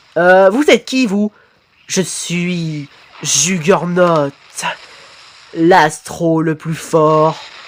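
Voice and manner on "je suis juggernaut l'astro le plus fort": very slow, low, mechanical robot monotone. Asked who he is, a speaker suddenly answers in a robot voice. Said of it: "Pourquoi vous prenez une voix de robotique d'un coup?".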